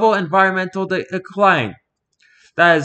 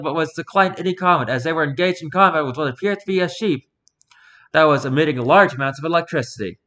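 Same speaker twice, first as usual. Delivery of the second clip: news anchor voice. Acted. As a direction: read it like an evening newscaster. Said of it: "Trying to read in, in a news anchor voice".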